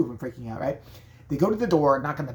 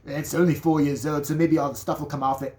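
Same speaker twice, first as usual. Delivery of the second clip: British man; 3 dB louder than usual. Retold or imitated. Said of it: "not dropping the British accent".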